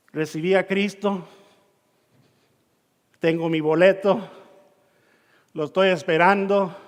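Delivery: low, settled, mildly smug voice; understated self-satisfied murmur, lightly acted; mock complacency. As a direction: imitate someone content to stay put. Voices complacent believers who stay put.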